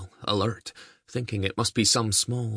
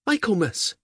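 a high, louder call of "Michaelmas"; 13 semitones higher, 5 dB louder than usual. A narrator's reading. Mother calls her daughter home across the field, loud high call. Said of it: "woman who called out the girl's name".

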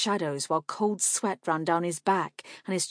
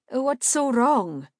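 high, slow, loud question; perplexed, insistent questioning; puzzled appeal; 7 semitones higher, 5 dB louder, slower than usual. A narrator's reading. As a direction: ask in baffled concern, stretching it out. Asks the screaming man what's wrong.

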